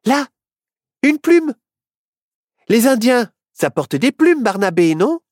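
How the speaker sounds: very high, loud cry of discovery; excited exclamation. A narrator's reading. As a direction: shout it out, thrilled to spot it. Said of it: "Myrtille s'exclama".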